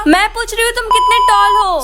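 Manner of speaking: shouting into a silent phone; calling out loud. Acted. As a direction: raise the voice so he can hear. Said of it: "मैं इतना चिल्ला चिल्ला के बोल रही हूँ".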